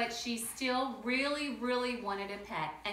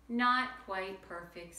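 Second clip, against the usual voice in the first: sleepy; slower than usual. Acted. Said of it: "said Father sleepily".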